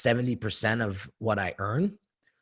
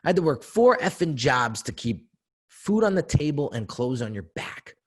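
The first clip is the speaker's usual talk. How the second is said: higher, louder, rushing heated dad; heated father rant; 5 semitones higher, 4 dB louder than usual. Retold or imitated. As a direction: let the grievance pour out. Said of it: "I won't say that curse word".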